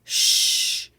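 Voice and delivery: loud hissed "sh"; isolated sound. Shown as a demonstration. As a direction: hiss out "sh" with no voice. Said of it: "spelling sounds".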